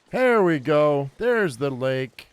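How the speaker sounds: loud, drawn-out call of triumph; delighted arrival at a landmark; pleased discovery. Real, not acted. Spots the lake at last.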